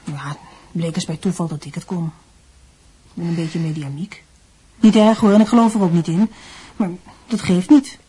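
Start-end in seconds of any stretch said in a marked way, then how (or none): 0.0-4.2 reluctant. Acted. Mother reluctantly confesses.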